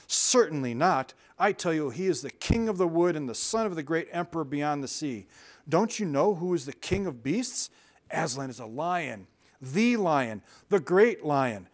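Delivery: firm, weighty and slowing beaver; sternly correcting the girl. Acted. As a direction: lay it down firmly like a stern elder. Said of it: "Mister Beaver sternly said".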